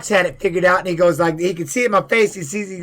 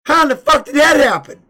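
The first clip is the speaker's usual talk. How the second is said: stunned question; 8 semitones higher, 5 dB louder than usual. Retold or imitated. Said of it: "And I'm going".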